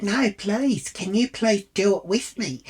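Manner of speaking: mock plea to a friend for help; pleading. Imitates nervous friend begging.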